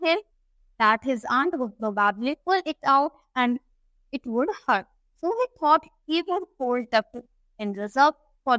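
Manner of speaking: slow, deliberate English reading; story read-aloud. A narrator's reading. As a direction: read it out slowly for a class. (धीमे-धीमे कहानी का पाठ)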